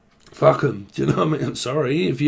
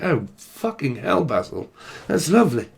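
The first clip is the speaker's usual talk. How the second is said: Mary Poppins-like British. Shown as a demonstration. Reader sending up local speech, proper British accent. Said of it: "we speak more like Mary Poppins".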